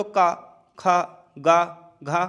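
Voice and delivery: का, खा, गा, घा spaced out and pressed from the throat; throat consonant drill. Shown as a demonstration. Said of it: "जोर जो है वो आपके गले पर पड़ रहा है".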